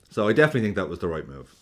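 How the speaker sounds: ordinary delivery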